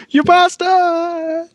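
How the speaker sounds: shrieking cartoon villain, high and drawn out; sputtering foiled villain. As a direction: curse them as you fly off. Enemy cursing as he's blasted away.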